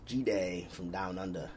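a weak, slowed try at an Australian accent; half-hearted Aussie greeting, drawn out slowly. Shown as a demonstration. Host greets an Australian viewer in a failed Australian accent. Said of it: "Just try to do that in an accent".

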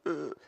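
small, soft grunt of held-back weeping; mock a restrained British sob; stifled stiff-upper-lip whimper. Preacher mimicking restrained weeping, a soft stifled grunt. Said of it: "British stiff upper lip".

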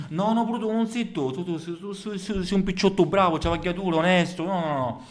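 high-pitched Sicilian Jesus voice; Sicilian accent. Acted. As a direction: answer in broad Sicilian accent.

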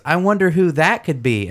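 high, fake-innocent wondering; super obvious innocence. Sam feigning innocence at the door, high and fake. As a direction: play it too obviously innocent. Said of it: "a real super obvious".

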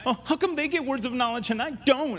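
put-on petty grievance; mock envious whine. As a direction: whine it like someone left out. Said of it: "That's what you sound like".

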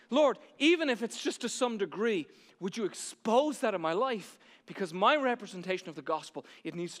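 modelled prayer. Shown as a demonstration. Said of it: "ask that question today of yourself".

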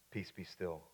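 very soft, low command; calm command. Acted. Jesus speaking to the storm, in a hushed calm. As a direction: barely raise the voice, quietly in control.

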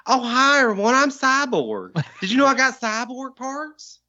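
high, slow goofy Cyborg voice; half robot voice. Retold or imitated. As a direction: play a dopey cyborg introducing himself. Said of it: "we came up with the Cyborg's, uh, voice".

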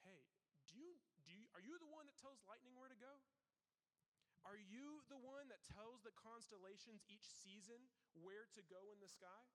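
lightly voiced thunderous God questioning a man; booming voice of God. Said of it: "Booming, thunderous, loud voice of God".

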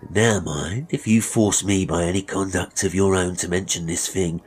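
menacing barber relishing the threat; lightly voiced gloating villain. Master threatening the boy's mother with hanging, gloating. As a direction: press the threat home with relish.

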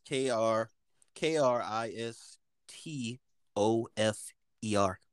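slow letter by letter spelling. Shown as a demonstration. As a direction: spell it out slowly. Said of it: "this how it is".

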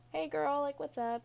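high-pitched, put-on breezy hello; acted casual greeting. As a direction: pitch it up, playing nothing-is-wrong. Acted cheery greeting to her mother.

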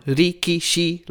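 level, evenly weighted "rikishi"; all on one tone. Shown as a demonstration. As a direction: give each syllable of "rikishi" the same punch and pitch. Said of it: "all on the same tone".

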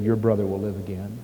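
low, soft and stern; stern rebuke. Acted. Jesus answering the grieving sister, low stern rebuke. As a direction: calmly rebuke her grief. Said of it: "Sternly rebuking the Lord".

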